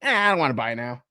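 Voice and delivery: a light put-on voice of a foolish buyer; imitating a bargain-blind customer; mock dim shopper. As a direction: sound smugly silly. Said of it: "It's like".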